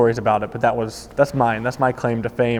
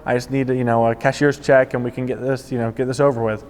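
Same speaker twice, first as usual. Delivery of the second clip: lightly acted nonchalance; acting cool. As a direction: play it cool, imitating an easy greeting. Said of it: "and I act cool".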